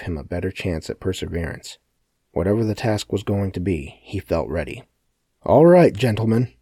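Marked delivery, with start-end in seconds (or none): 5.4-6.5 loud, high holler to a crowd. A narrator's reading. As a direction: holler it across the room. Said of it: "Sebastian hollered".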